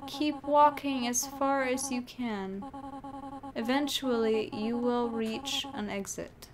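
slow, measured parting words; dying guardian. Acted. Dying guardian sends the human onward, slow and solemn. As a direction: speak slowly, weighing each word. Reads game character's farewell.

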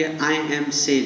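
slow, drawn-out I am Cell; mock self-introduction. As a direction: stretch each word like a silly boast. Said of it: "હવે તું એમ આવીને કે". (ધીમે ખેંચીને બોલાયેલું મજાકિયું I am Cell)

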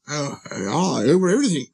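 casual royal statement after a little hemming; king's magnificent simplicity. Acted. King telling the prince what he rules, grandly simple. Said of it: "with magnificent simplicity".

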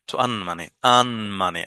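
"earn" said with no R sound; non-rhotic "earn"; silent R in earn. Shown as a demonstration. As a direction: drop the R in "earn", a long open vowel before the n. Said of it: "আর টা উচ্চারণ করি না".

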